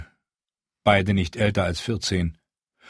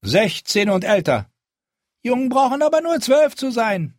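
commanding voice; 14 semitones higher, 5 dB louder than usual. A narrator's reading. Jon addresses wildlings, character voice.

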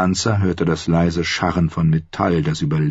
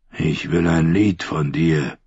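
growling; 2 semitones lower than usual. Acted. The dream figure growls at Sansa, slow. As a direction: growl it out as a threat. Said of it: "knurrte er".

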